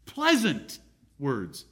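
Pleasant words, drawn out very slowly; slow, savoring emphasis on Pleasant words. Shown as a demonstration. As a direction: linger on every syllable of Pleasant words.

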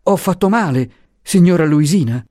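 high, worried asking; anxious question. Acted. The professor asking Luisa, high and anxious. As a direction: beg to know the harm.

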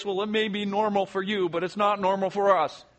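lightly trembling, fearful disciple; a touch of shaky fear. Acted. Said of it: "says, trembling voice".

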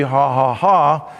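spoken, deliberate "ha ha ha"; badly faked taunting laugh; low, slow mock laughter. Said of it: "and she's laughing".

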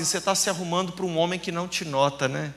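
low, confiding prophecy to a client; hushed prophetic word. Acted. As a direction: lean in and tell her softly what God shows.

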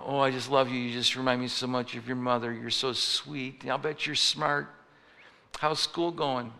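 nice grandmother voice. Retold or imitated. Grandma kneels down to her granddaughter, lightly voiced sweet granny. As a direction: coo like a doting grandmother. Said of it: "her nice little grandmother voice says".

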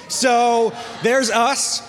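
slow, loud, delighted reveal; there's us, proud and loud; excited reveal. Real, not acted. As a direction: show it off with a big voice. Showing the manatee selfie.

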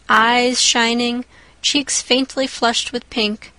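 ordinary delivery, nothing marked

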